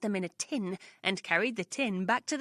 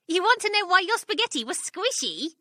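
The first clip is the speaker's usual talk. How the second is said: Missus Twit; 9 semitones higher, 6 dB louder than usual. A narrator's reading. Wife gloating, setting up reveal.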